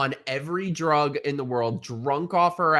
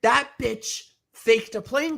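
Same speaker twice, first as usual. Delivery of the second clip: shocked; 9 semitones higher, slower than usual. Real, not acted. Shocked gossip reveal.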